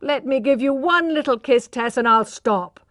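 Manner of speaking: coaxing. A narrator's reading. Man pressing for a kiss.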